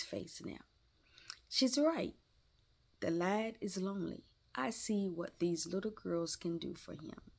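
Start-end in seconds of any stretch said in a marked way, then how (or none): 1.5-7.3 inner thought. Acted. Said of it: "thought Mister Lawrence".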